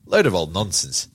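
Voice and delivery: low, dismissive echo of Keane; sounding like Keane. Real, not acted. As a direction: wave it away a little like Keane. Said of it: "I sound like him there saying that".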